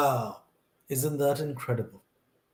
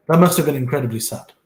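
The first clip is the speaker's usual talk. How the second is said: louder and fast, pressing it home; emphatic repeat; 9 dB louder, faster than usual. Real, not acted. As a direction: hit it harder the second time.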